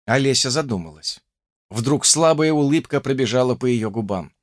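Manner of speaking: usual speaking voice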